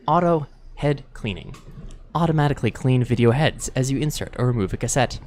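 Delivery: calming reading voice. Shown as a demonstration. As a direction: read it to lull listeners to sleep. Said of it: "basic documentation in a really calming way".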